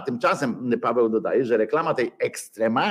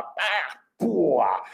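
mouth gunshot noises; 4 semitones higher than usual. Retold or imitated. Imitated gunshots in reenactment.

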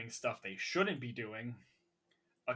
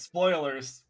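spoilers warning; 3 semitones higher, 8 dB louder than usual. Real, not acted. Warning the listener about spoilers.

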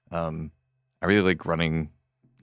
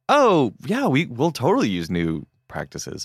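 mock agreeable; 6 semitones higher, slower than usual. Company feigning agreement.

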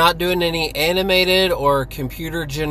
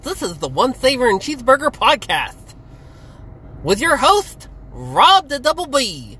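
booming ringmaster intro, higher; 8 semitones higher than usual. Acted. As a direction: announce it like a circus ringmaster. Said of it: "it's my anime voice".

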